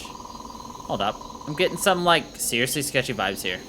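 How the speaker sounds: lightly voiced bubbly valley girl; a hint of a chirpy valley girl. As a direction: play the hyped valley girl soldier, like, totally. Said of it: "uh, valet voice".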